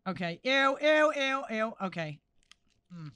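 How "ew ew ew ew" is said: disgusted. Real, not acted. Disgusted by dripping mask.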